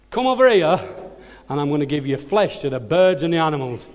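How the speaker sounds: mock giant's bellow, easing off after the first words; Goliath's yelled challenge. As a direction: yell a taunt across the battlefield. Redoes Goliath's yell louder.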